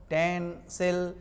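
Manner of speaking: टेंसिल drawn out slowly, each syllable separate; slow syllable demo. Shown as a demonstration. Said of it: "यूटेंसिल means घरेलू बर्तन". (टेंसिल को धीरे-धीरे, अक्षर-अक्षर बोलना)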